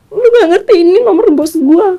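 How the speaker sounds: husband berating wife over the deleted number; angry husband. Retold or imitated. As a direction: rage at her for deleting it. Husband raging about boss's number.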